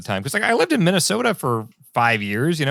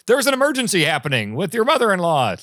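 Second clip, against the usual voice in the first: higher-pitched imitation of an emergency alert; mock alarm, pitched up; mock urgent alert; 5 semitones higher than usual. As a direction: announce it like an alarming text alert. Voicing a phone's emergency alert.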